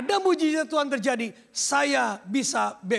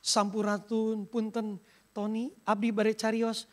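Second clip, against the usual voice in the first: Sundanese voice; 4 dB quieter than usual. Pretend. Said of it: "Tuhan seperti orang Sunda".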